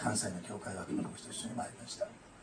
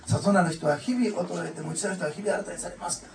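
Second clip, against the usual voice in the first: classical scripture recital; 6 semitones higher, 8 dB louder than usual. Retold or imitated. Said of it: "文語体で言うんですね".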